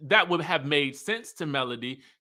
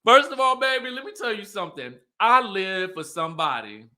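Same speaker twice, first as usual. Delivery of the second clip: higher, quick, eager opener; excited and fast, a little higher; 4 semitones higher than usual. Real, not acted. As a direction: jump in, thrilled to share. Excited commentary after the clip.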